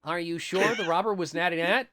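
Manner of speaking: lightly hammed-up boy detective; playful storybook question; funny character voice. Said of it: "can you read this in a funny voice".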